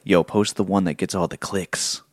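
low, slow scheming villain; evil voice. Acted. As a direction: plot it like an unhinged villain. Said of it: "Every podcast is gonna have my evil voice".

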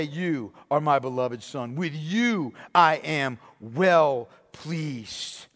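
low, slow and tender; Father tenderly addressing his beloved Son, low and slow; tender Father's voice. Acted. Father speaks to Jesus.

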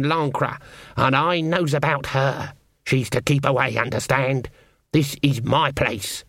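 stern witch Granny. Acted. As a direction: warn off an intruder with measured authority. Granny warns off the unicorn.

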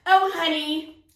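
high, sugary bragging voice; a hint of a syrupy show-off wife; mocking a gushing wife. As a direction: gush about your husband like a show-off. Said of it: "this is how they talk".

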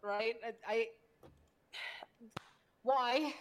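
high, slow, exasperated disbelief; can't believe anyone would do that; incredulous. Real, not acted. Incredulous rant about the meeting.

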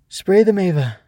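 high, loud urgent cry; calling out. A narrator's reading. Swoosh calls to Ava from the floor, urgent shout. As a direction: call out an order in the thick of a fight. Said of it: "Swoosh called from the floor".

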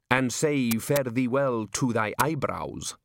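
archaic textbook recital. A narrator's reading. Imagined archaic book instruction.

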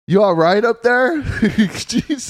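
high, loud call upward; shouting up scaffolding. Real, not acted. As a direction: call up to her, half laughing. Calling up to Millie climbing.

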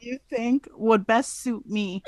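mildly exasperated retelling, half laughing; drawn-out, lightly mock-frustrated question; exasperated protest. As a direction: re-enact your pleading side of the argument. Acted protest in retold argument.

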